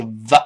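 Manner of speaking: V as a short voiced lip-teeth sound; correct V sound. Shown as a demonstration. Teacher isolating the sound, short clear v. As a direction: say "V" as a brief vuh. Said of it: "注意是".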